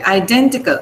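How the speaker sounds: Identical with DEN stressed. Shown as a demonstration. Teacher says pronounce it that way, DEN stressed. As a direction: hit DEN in identical, i-DEN-tical. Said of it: "pronounce it that way".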